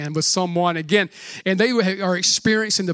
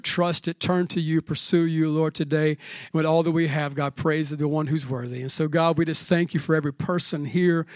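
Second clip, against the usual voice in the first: soft, lower prayer voice; 5 semitones lower, 3 dB quieter than usual. Acted. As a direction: pray gently over the people. Pastor leads a prayer.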